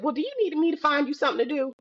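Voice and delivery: high, rapid motherly warning; retold mom's quick threat of chores; imitating mother. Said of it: "She's like".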